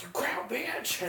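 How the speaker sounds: high, slow, unvoiced laughing jab; breathless laughing insult; laughing slow taunt. Yelled insult retold.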